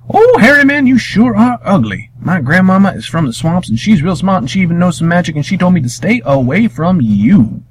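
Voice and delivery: put-on high, childlike boy's voice; young Wiley voice. Boy Wiley taunting the monster, high and cheeky. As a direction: pitch way up for a young boy talking back.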